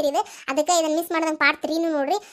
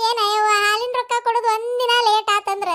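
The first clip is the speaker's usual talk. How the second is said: mock lament. Mock funeral lament by neighbour.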